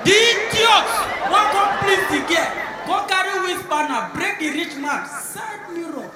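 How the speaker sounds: angry shout. Retold or imitated. Teller shouting about the foolish boyfriend. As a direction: shout it like you can't believe him.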